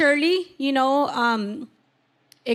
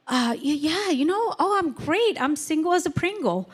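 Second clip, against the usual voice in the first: high, breezy mock of a carefree ex-boyfriend; mimicking the ex; 6 semitones higher than usual. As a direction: play him as smugly upbeat, pitched up. Ex-boyfriend voiced boasting he's fine.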